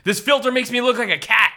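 high, loud, laughing line; laughing delight. Retold or imitated. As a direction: giggle it out, amused by the filter. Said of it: "on his phone, he goes".

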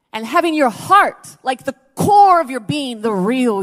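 rising preacher shout. Acted. Preacher crying out to the congregation, loud.

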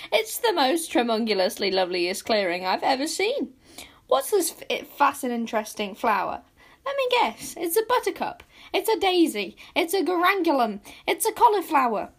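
very high, loud, overexcited little voice; squeaky little creature. A narrator's reading. Tiny follower guessing the flower's name, squeaky and excited. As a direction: squeak each guess with breathless delight. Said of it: "squeaked Squeeze Juice".

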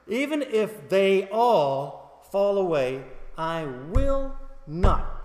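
very slow, loud, drawn-out declaration; emphatic vow. Acted. Peter vowing not to fall away, loudly emphatic. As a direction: hammer out each word slowly and loudly. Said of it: "He said emphatically".

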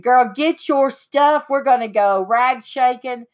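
retold friend rallying her out; bossy friend. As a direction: stretch it like a cheerful command. Friend orders her out to shop.

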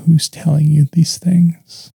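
gentle slow question; soft voice. Retold or imitated. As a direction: ask it softly and kindly. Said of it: "a soft voice saying".

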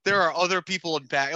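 mildly menacing mock lecture; borderline threatening. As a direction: imitate a sister laying down the law. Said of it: "borderline threatening them to be like".

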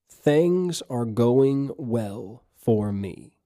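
very slow, deliberate and soothing; slow calm affirmation. Shown as a demonstration. Pastor leading a final affirmation, very slow. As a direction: draw it out like a prayer. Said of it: "Say this with me".

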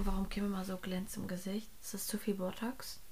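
whispered, sneaky gossip; catty whisper. Real, not acted. Asking her co-host about Kim's shiny face, catty whisper. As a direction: drop to a whisper for the bitchy bit.

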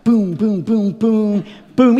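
rhythmic booming blows; imitated stick blows. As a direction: mimic repeated whacks, boom after boom.

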